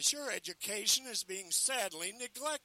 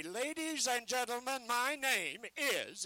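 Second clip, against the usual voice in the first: barker delivery demo; 4 semitones higher, slower than usual. Shown as a demonstration.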